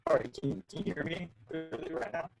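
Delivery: choppy breaking-up audio; glitchy robotic call. Real, not acted. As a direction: voice cutting in and out over a bad line. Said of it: "I think your audio is breaking up".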